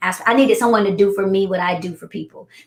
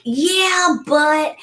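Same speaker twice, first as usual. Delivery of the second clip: higher, doubtful protest; hesitant colleague; 7 semitones higher than usual. Retold or imitated. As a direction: lift it like a timid objection. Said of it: "she was like".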